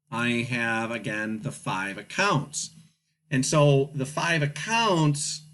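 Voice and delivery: breathless from talking; out of breath. Real, not acted. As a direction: talk while catching your breath. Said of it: "catching my breath".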